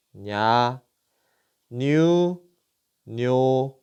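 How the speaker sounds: 냐, 뉴, 뇨 each drawn out as one syllable, nya, nyu, nyo; syllable demonstration. Shown as a demonstration. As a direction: model 냐, 뉴, 뇨 with a pause after each. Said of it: "이렇게 읽겠죠".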